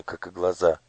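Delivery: usual speaking voice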